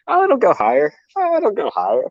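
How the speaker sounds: high, sing-song voice of greed; mock your own greedy thoughts. Greedy inner voice mimicked.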